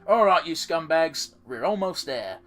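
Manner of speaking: put-on Southern accent, rallying the scumbags. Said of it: "she has a fucking southern accent".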